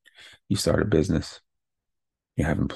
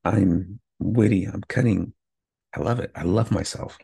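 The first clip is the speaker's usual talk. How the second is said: getting hyped. Real, not acted. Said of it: "I'm getting hyped right now".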